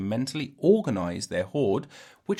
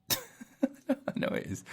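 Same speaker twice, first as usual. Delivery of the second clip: silly high voice; 9 dB quieter, much slower than usual. Pretend. Mocking reply in silly voice.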